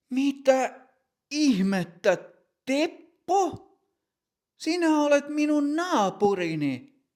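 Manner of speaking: very high, amazed exclamation; can't believe it's the neighbour; astonished. Acted. Matti recognising his neighbour on the pitch, astonished. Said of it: "Matti toteaa".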